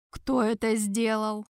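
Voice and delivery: slow, icy, level demand; inquisitor's cold demand; cold question. Acted. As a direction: ask coldly, each word weighed. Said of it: "холодно спросил Тарквимада".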